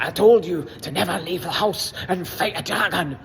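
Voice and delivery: mock Scottish father, scolding in a put-on brogue; poorly faked Scottish dad telling his son off; bad Scottish accent. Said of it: "Scottish father".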